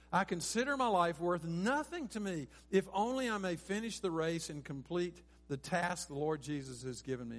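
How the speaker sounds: preacher quoting a verse forcefully; emphatic scripture reading. Real, not acted. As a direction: read the verse with conviction, flowing on. Preacher reads the verse alone.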